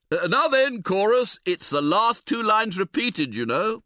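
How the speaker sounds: rally the guests to join in; bossy Harris. Acted.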